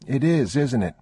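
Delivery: put-on a frightened kid insisting; scared boy. A narrator's reading. Boy afraid of the dark with his father. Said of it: "the boy said".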